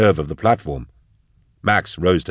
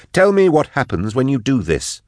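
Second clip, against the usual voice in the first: high, pressing voice; insistent demand; 7 semitones higher than usual. Acted. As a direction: demand an answer, pitched high. Drusha demands the consequences.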